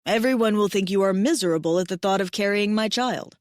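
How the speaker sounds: a hint of a devoted big mate; tender alien mate. Mate teases her.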